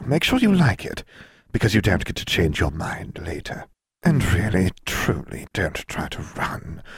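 sly serpentine jailer, unhurried; menacing snake woman. Acted. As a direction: purr it like a coiled snake. Voices snake-woman jailer Edna.

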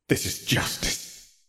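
slow whispered self-assurance; inner thought. A narrator's reading. Sirius telling himself in thought, slow whisper. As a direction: whisper it slowly, as if thinking. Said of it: "thought Sirius".

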